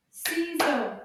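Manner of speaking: CI-SEAUX loud, one beat per syllable; clapped syllables. Shown as a demonstration. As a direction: punch both halves of Ciseaux. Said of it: "Can we clap the syllables".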